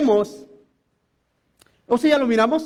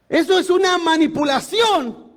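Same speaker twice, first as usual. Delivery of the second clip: preacher denouncing fraud, raised voice; indignant shout; 5 semitones higher than usual. Real, not acted. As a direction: call it out from the pulpit.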